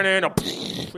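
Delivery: sung-out mock drum-and-bass riff; imitated DJ mix. Host recreating the DJ's old mix, imitated riff. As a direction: imitate the track with nonsense syllables. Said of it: "So it'd be like".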